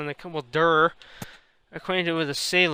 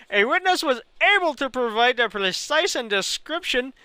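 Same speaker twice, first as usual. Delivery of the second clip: mock Indian accent, stumbling over "precise and description"; Indian accent, misread; 4 semitones higher than usual. Streamer misreads the news line in a mock Indian accent. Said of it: "talk this long with an Indian accent".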